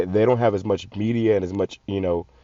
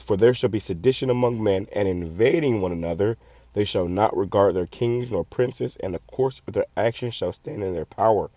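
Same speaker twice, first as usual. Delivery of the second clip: scripture reading. Acted. Reads scripture aloud.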